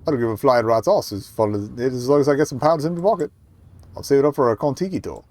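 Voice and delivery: amateur New Zealand builder; loosely Kiwi working bloke; improper Kiwi accent. Acted. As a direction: attempt a blunt Kiwi accent. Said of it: "how to do a Kiwi accent".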